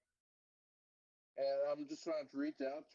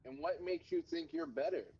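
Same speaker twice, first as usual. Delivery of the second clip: condescending; 5 semitones higher than usual. Retold or imitated. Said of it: "in this condescending way".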